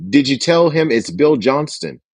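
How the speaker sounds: firm, pointed question; authoritative caller. Shown as a demonstration. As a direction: press her as if she should know better. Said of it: "keep a tone of authority".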